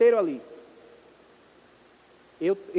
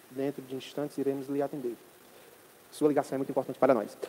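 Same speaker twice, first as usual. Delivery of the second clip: customer service voice; 8 semitones lower, 7 dB quieter than usual. Pretend. Mock phone hold message.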